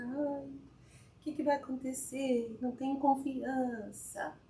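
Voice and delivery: slow, fretful whine of doubt; anxious inner voice. Retold or imitated. Sitting down alone, the doubting self speaks, slow and fretful.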